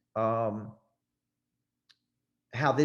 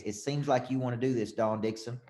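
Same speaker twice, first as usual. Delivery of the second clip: coaching close; 3 dB quieter than usual. Shown as a demonstration. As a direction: float the suggestion without pushing. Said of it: "You gotta say it like this".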